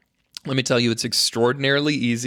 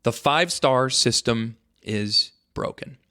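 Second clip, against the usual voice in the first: mock grave announcement; slower than usual. Shown as a demonstration. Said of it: "here is the cold, hard truth".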